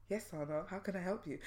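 put-on quiet, measured reply to a child; polite patience. Parent replying to daughter calling mummy, polite patience. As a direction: answer the pestering child with soft courtesy. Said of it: "I try to be quite polite".

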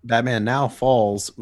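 normal talking voice

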